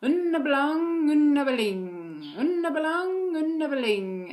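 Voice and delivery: put-on high singsong toddler chant; toddler babble. Parent imitating toddler's repeated phrase, high chant. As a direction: chant it like a small child. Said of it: "she started saying".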